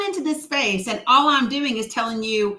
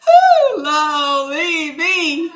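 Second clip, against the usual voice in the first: laughing shriek; 3 semitones higher, 6 dB louder, much slower than usual. Real, not acted.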